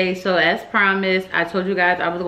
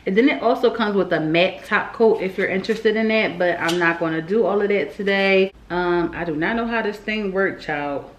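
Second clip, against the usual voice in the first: slightly slurred speech with retainers in; wearing a retainer. Real, not acted. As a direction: talk around a retainer in the mouth. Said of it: "if I sound a little, that's 'cause I, um, got my retainers in".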